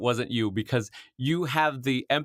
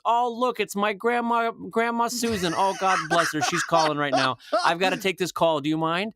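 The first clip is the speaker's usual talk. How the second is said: higher, hammed-up delight at the call; mock delight; 6 semitones higher than usual. Brad faking grandma's call to the fan, mock delight. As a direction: act thrilled that grandma is calling. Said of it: "Brad goes".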